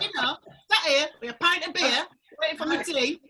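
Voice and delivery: Yorkshire pub-talk demo; Yorkshire accent. Shown as a demonstration. Woman showing friends how Yorkshire folk talk, Yorkshire accent. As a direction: put on everyday Yorkshire speech. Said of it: "stop speaking Yorkshire?".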